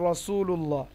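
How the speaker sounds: রসুলুল্লাহ starting with a thick, rounded "raw"; heavy Ra. Shown as a demonstration. Teacher asks why it is heavy, রসুলুল্লাহ with rounded Ra. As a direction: open রসুলুল্লাহ on a full dark R. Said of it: "র মোটা হয়".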